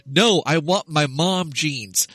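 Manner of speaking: slow drawn-out whiny wail, fading to a mutter; imitating crying kid. Dad imitating his upset son's bedtime whine, slow and fading. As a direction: mimic a toddler's tearful bedtime protest. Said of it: "he just keeps shouting over and over".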